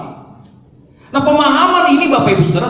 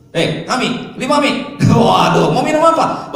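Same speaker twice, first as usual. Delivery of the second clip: put-on Batak-accented Hokkien; 4 semitones higher, slower than usual. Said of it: "Dia ngomong Hokkien".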